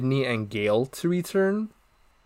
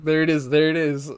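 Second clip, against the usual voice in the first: playful pointing, there it is; DiCaprio meme voice; 4 semitones higher than usual. Retold or imitated. Quoting the DiCaprio meme when the song plays, playful. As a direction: lightly mimic the meme excitement. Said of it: "doing the Leonardo DiCaprio meme".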